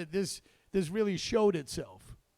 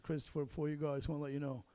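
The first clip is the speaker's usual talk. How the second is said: soft, lower retold bedside words; a quiet, understated goodbye; hushed bedside farewell; 3 semitones lower, 8 dB quieter, faster than usual. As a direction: lean in and say it gently. Leaning down to dying friend.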